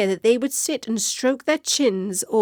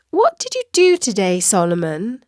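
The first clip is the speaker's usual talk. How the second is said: curious question. Acted. Katie asks her cat.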